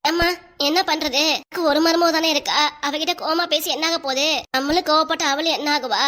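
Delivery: mild tearful wail, badly aggrieved; mock-weepy mother-in-law guilt trip; put-on crying. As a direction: plead with a fake sob in the voice. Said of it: "இப்ப எதுக்கு இப்படி அழுவுறீங்க?".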